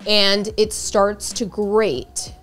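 usual speaking voice

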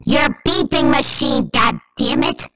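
slow, drawn-out mock-angry demand. Friend bickering over a machine, mock angry. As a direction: act cross, stretching out every word. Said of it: "I've never seen you this angry".

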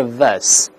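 ves with a plain uh, no r. Shown as a demonstration. Teacher splits the American word, ves without r. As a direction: say ves alone, tongue uncurled. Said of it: "没有字母R".

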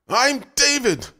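high, loud furious yell. A narrator's reading. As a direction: yell it like a beast awakening. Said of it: "David screamed".

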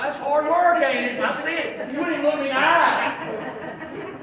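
preacher teases Martha laughing; teasing, laughing. Real, not acted. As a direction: call them out playfully. Teasing the congregation.

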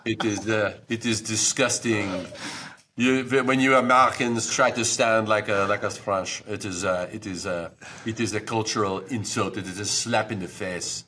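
put-on comic French accent, disgusted tone. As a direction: sneer at Americans in a French accent. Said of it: "let's hear your".

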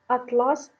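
атлас said as атла́с, the fabric; stress on the second syllable. Shown as a demonstration. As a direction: put the stress at the end of атлас. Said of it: "тканина". (наголос на другому складі: атла́с)

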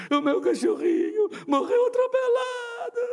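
very high, loud comic sobbing cry; sobbing wail. Retold or imitated. Grown man wailing to the pastor about his run-over puppy. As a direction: howl it like a heartbroken crybaby.

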